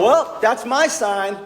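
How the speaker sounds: slow, drawn-out, dry resignation; milk it slowly like a punchline; deadpan. Retold or imitated. Deadpan reaction to grim speech.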